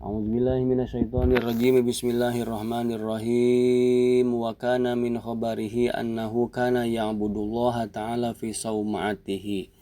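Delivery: even, continuous recited reading; Arabic text recitation. Acted. Teacher opening the book reading, in formal recitation. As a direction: recite the formula and text on a steady tone.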